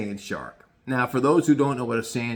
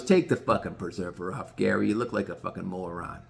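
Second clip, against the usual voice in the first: gruff Gross; 8 semitones lower, 8 dB quieter than usual. Retold or imitated. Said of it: "Gross goes".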